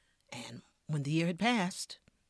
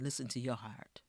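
whispered moral; 5 semitones lower, 6 dB quieter than usual. Real, not acted. Closing moral softly whispered.

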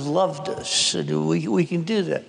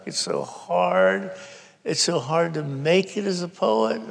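imitating a distraught sister, pitched up; higher-voiced acted lament; beside herself; 4 semitones higher than usual. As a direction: plead as if beside yourself, without shouting. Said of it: "she is just beside herself, and she's going".

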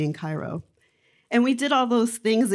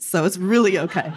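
laughing. Real, not acted. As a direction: laugh it off as you say it. Joking about being a therapist.

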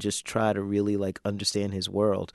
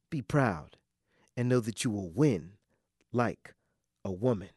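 solemn poem ending. Acted. Poem's closing lines.

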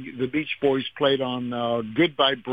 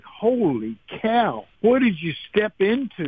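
awed exclamation; 6 semitones higher than usual. Retold or imitated. Awed at celebrities in audience.

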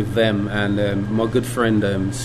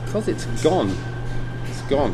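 getting emotional; 4 semitones higher than usual. Real, not acted. Owner remembering his mum's cooking, getting emotional. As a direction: voice catching, pitched up with feeling. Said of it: "Man, I'm getting emotional".

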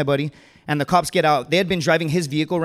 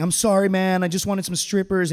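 higher-pitched, hapless apology; sheepish apology; 4 semitones higher than usual. Acted. Buddy apologizing to the friend he got arrested, sheepish. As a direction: keep apologizing to your handcuffed friend. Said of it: "he just keeps apologizing".

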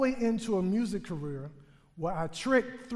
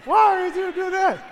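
high, slow, loud fake-sobbing kid; mock crying; 9 semitones higher, 7 dB louder than usual. Clinging child accuses mom, slow high mock sobbing. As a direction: stretch it out like a betrayed little boy. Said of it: "and I'm crying".

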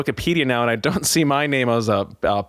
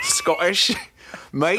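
a hammed-up Scottish shout, higher; brief hammy Scottish accent; mock Scottish accent; 5 semitones higher, much slower than usual. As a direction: play a cartoon Scotsman yelling his nationality. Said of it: "Is that your German accent also?".

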